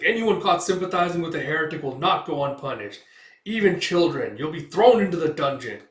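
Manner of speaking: stern threat. Acted. Guard warning the townsfolk, stern loud threat. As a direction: lay down the law to the crowd.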